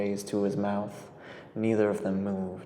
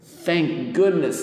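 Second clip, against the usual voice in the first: relieved; 6 semitones higher, 7 dB louder, slower than usual. A narrator's reading. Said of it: "blowing out his cheeks in relief".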